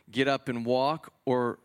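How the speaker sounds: slowed, weighing question, lightly voiced Jesus; slow rhetorical question. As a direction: draw out the choice, asking the crowd. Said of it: "what's harder to say".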